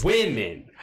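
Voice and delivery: Women as "WIM-min", first syllable stressed; Women falling, WIM hit clearly; demonstrated pronunciation. Shown as a demonstration. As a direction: model Women with a firm short "i". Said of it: "put the emphasis on this syllable".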